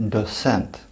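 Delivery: docent with an "s" sound for the c, "doh-SENT"; Dutch pronunciation. Shown as a demonstration. Teacher showing learners another letter in docent, Dutch pronunciation. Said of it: "here you pronounce like".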